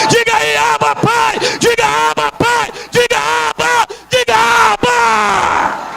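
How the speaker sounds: high, insistent chant-like cry; rally the congregation to shout along; fervent high-pitched repeated call. Real, not acted.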